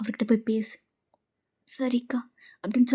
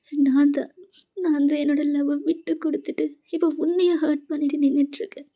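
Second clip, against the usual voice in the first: tearful apology; 3 semitones higher than usual. Acted. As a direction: sob out the sorry, pleading. Wife crying, apologising to husband.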